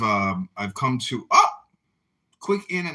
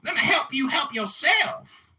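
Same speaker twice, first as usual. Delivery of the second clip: put-on troll voice. Troll lecturing the room in a put-on voice. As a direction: preach at the room in the fake character. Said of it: "I guess I can stop talking like this now".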